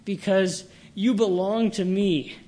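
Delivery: a touch of sovereign exultation; exultant Christ. Acted. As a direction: voice Christ's triumph with measured emphasis. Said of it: "Christ is exalting in his own sovereignty".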